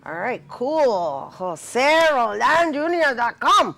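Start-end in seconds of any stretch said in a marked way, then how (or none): 1.3-3.7 put-on slow Spanish-accented web address; playful Spanish accent. Host repeats guest's website in a playful Spanish accent. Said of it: "I decided to talk with an accent".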